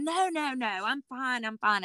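retold high-pitched reassurance; protesting denial. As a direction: insist lightly that nothing is wrong. Retold denial to her doctor.

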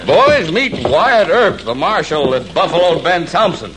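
mocking call. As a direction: call the gang over to jeer. Bully calls his gang over mockingly.

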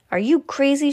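a woman outbidding a stranger; scornful shout. Acted. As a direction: shout it over the man's offer. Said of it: "shouted a woman".

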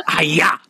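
playful mock chopping yell; mock karate cry. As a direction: let out a cartoonish "hi-ya" chop. Acts out Procrustes chopping a victim.

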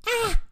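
short high exclamation; high cry. A narrator's reading. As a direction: let out a sudden high cry. Rooster's startled cry.

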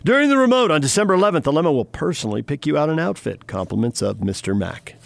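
smooth sponsor spot read. Acted. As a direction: sell it like a live radio ad.

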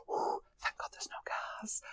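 hushed, breathy whisper to herself; relieved inner voice. Retold or imitated. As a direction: whisper it, as if catching your breath. Relieved thought after near miss.

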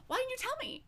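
squeaky high line through laughter; playing the shocked friend while giggling; laughing high quote. Retelling a friend's teasing question, laughing and high.

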